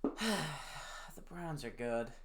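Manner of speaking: sighing, very slow, dejected; resigned sigh. Real, not acted. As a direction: let the words drag out in defeat. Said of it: "I'm just sad".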